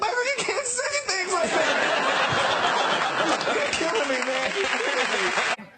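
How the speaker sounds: high, drawn-out wail through fake tears; hammed-up crying, loud and squeaky; mock bawling. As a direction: act out an overwhelmed fan sobbing. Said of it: "they were both crying to each other".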